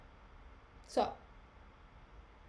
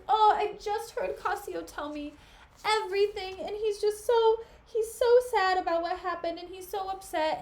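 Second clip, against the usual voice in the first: pleading Desdemona; 4 semitones higher than usual. Acted. Paraphrases Desdemona pleading for Cassio.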